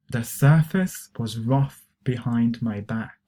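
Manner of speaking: slow repeat-after-me sentence; slow teacher's demonstration; slow model reading. Shown as a demonstration. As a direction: say it slowly, phrase by phrase, for learners. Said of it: "try to pronounce these expressions".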